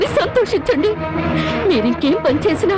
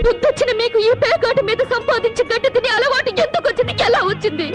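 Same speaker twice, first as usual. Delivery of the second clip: tearful outburst; 3 semitones higher than usual. Acted. Wife berates gambling husbands.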